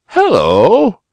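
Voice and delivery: called out in alarm; startled exclaim. A narrator's reading. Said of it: "exclaimed the bunny uncle".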